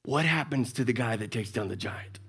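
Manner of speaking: hushed whisper, low and secretive; David whispering to the soldiers. Retold or imitated. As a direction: lean in and whisper the question. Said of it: "I kinda imagine it like this".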